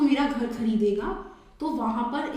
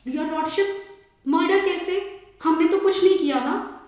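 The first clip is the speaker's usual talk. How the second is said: protesting parents; 5 semitones higher than usual. Acted. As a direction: act the parents pleading innocence before the judge. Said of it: "माँ बाप कह रहे".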